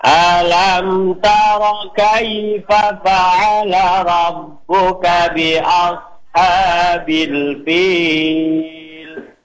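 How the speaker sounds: slow melodic tartil chant; teacher modelling tajwid recitation; Quran recitation. Shown as a demonstration. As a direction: recite it measured and sung. Recites again on request.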